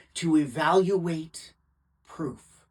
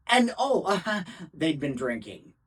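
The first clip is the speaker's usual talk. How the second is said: mock afterthought. Lawyer mocking the witness's reliability.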